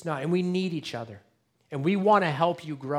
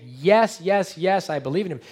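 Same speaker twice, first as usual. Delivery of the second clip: eager yes; 4 semitones higher, 6 dB louder than usual. Retold or imitated. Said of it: "a lot of you would say".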